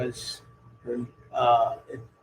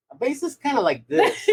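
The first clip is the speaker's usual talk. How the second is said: uncle's voice; 13 semitones higher than usual. Retold or imitated. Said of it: "and he just handed it to me and said".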